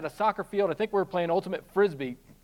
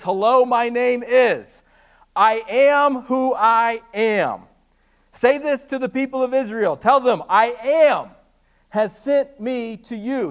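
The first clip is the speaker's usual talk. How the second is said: slow, loud and solemn; solemn God voice; 4 semitones higher, 7 dB louder than usual. Retold or imitated. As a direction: proclaim it like God. Voicing God's answer.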